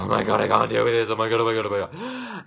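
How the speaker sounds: gush, then squeal; retold fangirling. Fan seeing the jumpsuit, loud gushing squeal. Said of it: "and I was like".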